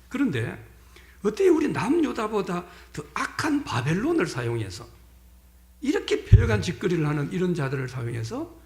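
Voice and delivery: complaining prophet, rising to a pitch on the outrage; a hint of an aggrieved protester pleading with God; voicing Habakkuk's protest. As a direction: argue with God like an indignant prophet. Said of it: "이 말을 쉽게 이야기하면 뭡니까?".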